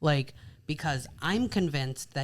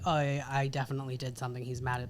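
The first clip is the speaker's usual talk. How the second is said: rattled off fast, quieter, as a jittery inner voice; rushed mock panic; 3 semitones lower, 4 dB quieter, much faster than usual. Wife imitating her own panic when husband comes home, fast mock fret. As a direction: gabble it like a fretting wife.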